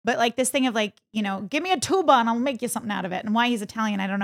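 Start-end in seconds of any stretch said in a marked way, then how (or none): 1.4-3.2 put-on quick, light mobster accent on the quote; a hint of a New York mobster accent. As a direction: toss off the line like a movie mobster. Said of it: "which is why I'm doing that, like, mobster accent".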